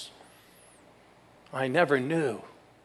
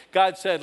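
GOD said hit loud and hard; preacher booming the refrain; punched refrain; 3 semitones higher, 7 dB louder than usual. Acted. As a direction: land "God" like a hammer blow. Repeated declaimed refrain.

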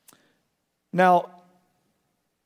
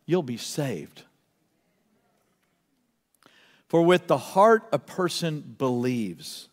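unhurried scripture reading, phrase by phrase; slow reading; 3 semitones lower than usual. Real, not acted. Preacher reads on salvation to the congregation, slowly. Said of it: "I want to read it slowly".

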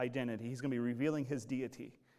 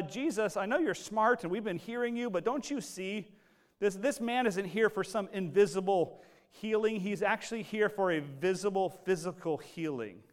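mock protest; 5 semitones higher, 3 dB louder than usual. Confused audience objecting to Jesus.

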